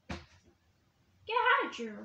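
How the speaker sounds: slow command. Pretend. Chasing away giraffe toy.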